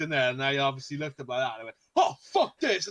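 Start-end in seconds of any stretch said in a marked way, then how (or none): 2.0-2.9 high, loud yelp of fright; retold panicked outburst. Gamer retelling his VR scare, panicked outburst. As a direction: burst out as if recoiling from a jump scare.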